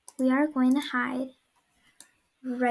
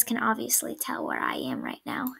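whispering; 3 semitones lower, 7 dB quieter, faster than usual. Real, not acted. Hiding, whispering to viewers.

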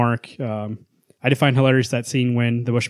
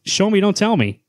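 higher, punchy "Show me, don't tell me"; emphatic catchphrase; emphatic motto; 8 semitones higher than usual. Real, not acted. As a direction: hit both verbs hard. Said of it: "once again".

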